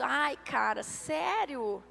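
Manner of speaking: low, soft, deflated naysayer; mock weary doubter's groan; discouraging sceptic. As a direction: pour cold water on their excitement. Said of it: "os céticos de plantão".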